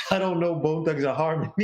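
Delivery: put-on joking stab at a Zimbabwean accent; attempted Zimbabwean accent. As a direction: imitate a Zimbabwean accent, close to laughing. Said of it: "I tried to do your accent".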